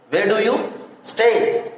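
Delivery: slow, drawn out question; slowly, for students to repeat. Shown as a demonstration. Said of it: "you should ask, like, a question".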